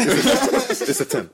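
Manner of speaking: high, drawn-out words through laughter; laughing. Real, not acted. Repeating his verdict to friends, laughing. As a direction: crack up while repeating the punchline.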